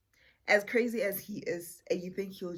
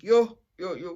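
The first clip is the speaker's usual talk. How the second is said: calling out; 12 dB louder than usual. Retold or imitated. Greeting man on arrival.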